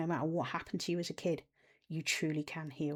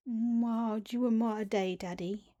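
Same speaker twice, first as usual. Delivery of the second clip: put-on high childlike voice, a bit louder; a little girl asking for her dad's attention; high baby talk tugging at Daddy; 5 semitones higher, 4 dB louder, slower than usual. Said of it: "when I was using that baby language".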